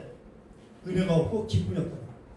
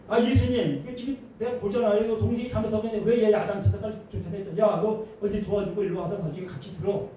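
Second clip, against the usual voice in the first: complaining to Jesus; 2 semitones higher than usual. Retold or imitated. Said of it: "이래야 되는데 왜 안 하냐는 거예요".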